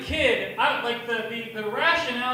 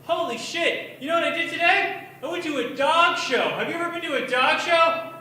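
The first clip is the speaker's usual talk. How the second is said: higher, louder, giddy father voice; excited dad; 6 semitones higher, 4 dB louder than usual. Retold or imitated. Father calling his kid, gushing about a dog show. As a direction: gush like a dad who forgot his duties.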